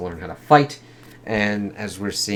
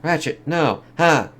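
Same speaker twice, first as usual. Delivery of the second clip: high, dismayed cry that breaks into a laugh; shocked oh no; 7 semitones higher, 3 dB louder, slower than usual. Real, not acted. Viewer seeing Ratchet shot, high dismayed cry. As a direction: wail for the fallen medic, then chuckle. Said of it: "It's like".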